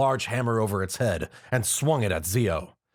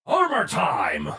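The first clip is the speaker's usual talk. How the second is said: slow, robotic gadget voice; belt announcing; 5 semitones higher, 3 dB louder, much slower than usual. A narrator's reading. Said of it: "the belt announced".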